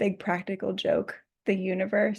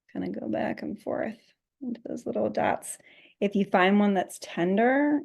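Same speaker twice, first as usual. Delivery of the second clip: guided meditation. Acted. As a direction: lead them gently through the massage. Guides a scalp massage.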